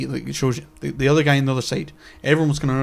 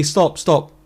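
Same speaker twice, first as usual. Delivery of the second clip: louder, firm mock reprimand; mock telling off; 3 semitones higher, 5 dB louder than usual. Speaker silencing a heckler, firm mock scolding. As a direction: halt the chamber and threaten the heckler. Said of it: "I'd have to say".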